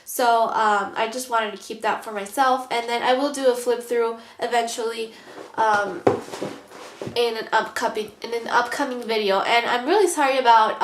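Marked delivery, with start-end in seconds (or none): 1.0-9.4 stuffy, blocked-nose speech; nasal voice. Real, not acted. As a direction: talk like your sinuses are congested. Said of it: "my nasal voice".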